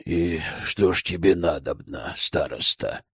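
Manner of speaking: low, grudging elder speaking through his teeth; a hint of a sullen old elder; процедил сквозь зубы. A narrator's reading. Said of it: "процедил он сквозь зубы". (низко, сквозь зубы, недовольный старейшина)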